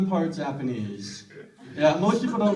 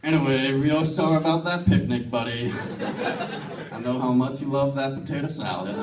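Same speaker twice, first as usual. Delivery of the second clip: Texan parent; 4 semitones lower than usual. Retold or imitated. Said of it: "my parents are Texan".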